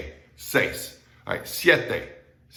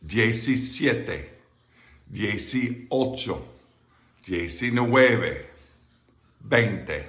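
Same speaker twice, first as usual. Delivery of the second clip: slow, stretched-out counting; slower; much slower than usual. Shown as a demonstration. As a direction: count slowly, separating the syllables. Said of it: "I'll do it slower".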